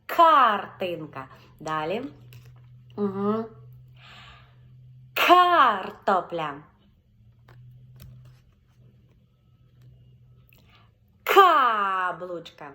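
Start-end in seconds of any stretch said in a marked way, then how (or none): 0.1-1.3 Картина said very slowly, loud hard К at the start; повільно, з наголосом на К; slow, stressed first syllable. Shown as a demonstration. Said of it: "і кажемо". 5.1-12.7 Картина said very slowly, loud hard К at the start; повільно, з наголосом на К; slow, stressed first syllable. Shown as a demonstration. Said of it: "Акцентуємо увагу тільки на перший склад".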